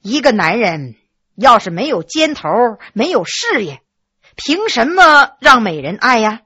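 soft-spoken. Acted. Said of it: "柔声说".

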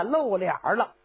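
usual speaking voice

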